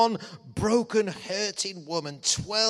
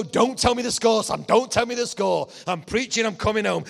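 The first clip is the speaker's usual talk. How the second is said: pleading don't-tell-me; 3 semitones higher, 5 dB louder than usual. Retold or imitated. Preacher pleads with son.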